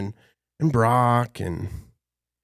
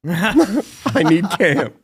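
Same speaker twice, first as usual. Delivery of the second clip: higher, louder, very slow begging I need Cam; hammed-up plea; 7 semitones higher, 6 dB louder, much slower than usual. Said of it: "And he's like".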